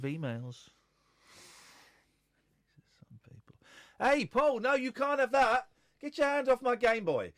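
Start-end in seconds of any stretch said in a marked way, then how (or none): 4.0-7.3 high, loud mock telling-off; mock shouting. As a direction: yell it in hammed-up protest. Sudden acted shout at Paul.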